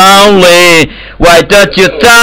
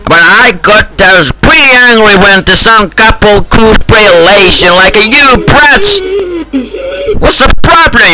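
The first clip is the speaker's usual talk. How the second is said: put-on Mexican accent, ranting; a trolling gamer faking a Mexican accent; mock Mexican accent. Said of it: "haven't heard that crap accent here".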